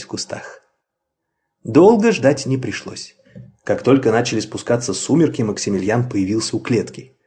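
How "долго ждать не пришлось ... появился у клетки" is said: ordinary delivery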